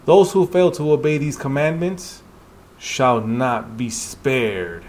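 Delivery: a looming warning read slowly; solemn, menacing recital; ominous slow reading. Acted. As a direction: drag out the final words gravely.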